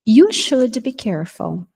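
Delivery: You should be careful said slowly, you stressed; slow teacher model. Shown as a demonstration. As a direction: dictate it slowly.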